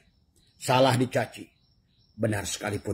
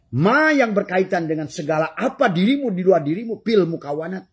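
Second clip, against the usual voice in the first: fiery preaching; 9 semitones higher, 6 dB louder than usual. Acted. Preaching at full force.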